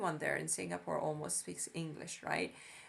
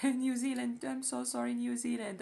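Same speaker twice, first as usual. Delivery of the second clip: laughing apology; 6 semitones higher than usual. Real, not acted. Laughing while apologizing to New Zealand for forgetting it. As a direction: giggle through a mock apology to the country.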